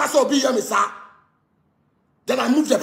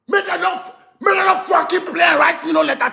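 angry shouting; 5 semitones higher than usual. Real, not acted. Warning people not to play with him, angry shout. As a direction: bark a warning at critics.

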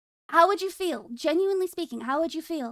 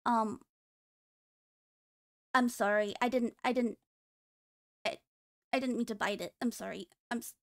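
mock apology; 6 semitones lower, 6 dB quieter than usual. Apologizing after biting.

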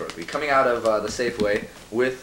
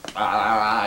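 tongue-tied stammer; 3 semitones lower than usual. Retold or imitated. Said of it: "I couldn't think of anything to say".

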